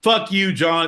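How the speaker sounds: lightly put-on native elder; mock indigenous voice. To his cohost John, a mock indigenous voice. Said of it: "It's indigenous voice".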